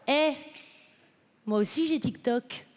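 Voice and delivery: low, slow, slurred seduction line; mock suave whisper. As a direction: breathe it like a tipsy seducer with no consonants. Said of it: "d'une voix suave, enfin suave, sans consonne".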